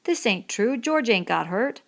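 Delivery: alarmed protest. A narrator's reading. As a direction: insist it can't be true. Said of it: "he cried".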